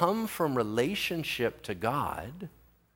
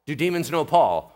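ordinary talk, nothing marked

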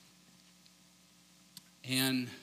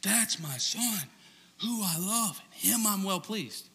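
Mufasa voice; 6 semitones higher, slower than usual. Retold or imitated. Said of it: "Mufasa voice".

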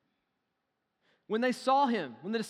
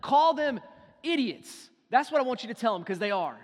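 hammed-up contempt, louder and higher toward "idiots"; mock scornful Jesus; 3 semitones higher, 6 dB louder than usual. Preacher mimics a scornful Jesus in a mock angry rant. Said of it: "be like".

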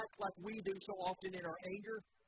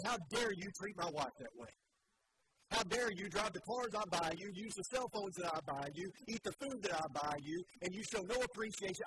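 acting furious at the daughters, slightly raised voice; mock angry rant. Father scolding his daughters over ingratitude, put-on anger. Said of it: "And so I stormed in and I said".

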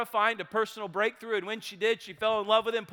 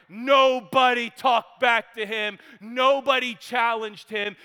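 louder, punchy storytelling about the bully; building loud telling; 2 semitones higher, 6 dB louder, slower than usual. Retold or imitated. Storyteller describing a bully, loud and punchy.

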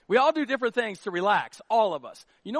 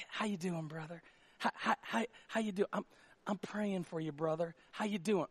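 much softer, lower, syrupy concern; pitying churchgoer; 4 semitones lower, 11 dB quieter than usual. Retold or imitated. Churchgoer fusses over the pastor, soft, low and pitying. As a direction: coo as if he might break. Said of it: "touch me like I'm super fragile".

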